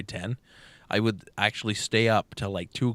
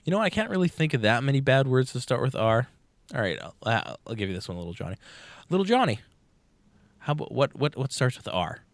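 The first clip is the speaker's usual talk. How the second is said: teacher voice; 3 semitones higher than usual. Retold or imitated. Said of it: "the teacher's like".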